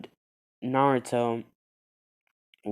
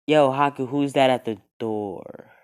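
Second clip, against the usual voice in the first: calling out; 3 semitones higher, 6 dB louder than usual. Acted. Zabuza calling from inside.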